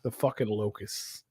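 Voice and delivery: slow, deadpan sarcasm; sarcastic. Real, not acted. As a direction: fake excitement, said slowly. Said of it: "You're being sarcastic".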